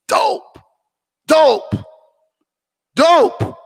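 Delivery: high, loud hype on each dope; hyped praise. Real, not acted. Hyping up a friend's photographer skills, excited. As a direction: pump up the word dope like a hype man.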